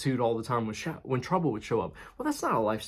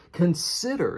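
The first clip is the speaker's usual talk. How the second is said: Consider set apart, pitched higher, falling at the end; stress on Consider; 5 semitones higher, slower than usual. Real, not acted. Preacher singling out the key word of the verse, stress on Consider. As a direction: lift and land the word Consider. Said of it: "this is what I wanna emphasize".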